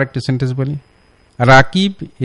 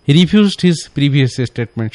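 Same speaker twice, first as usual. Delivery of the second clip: slow wrong model sentence; 3 semitones higher, 4 dB louder, much slower than usual. Shown as a demonstration. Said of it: "এটা রিফিউজ না".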